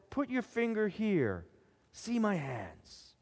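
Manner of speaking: gentle invitation. A narrator's reading. Jesus gently invites doubting Thomas.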